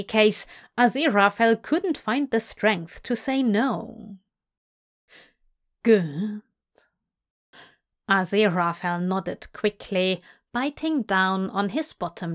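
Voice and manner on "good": whispered. Acted. Crowley urging Aziraphale on.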